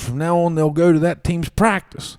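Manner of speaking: grab their attention quickly; coach announcement. Retold or imitated. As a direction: coach cutting off questions. Coach speech.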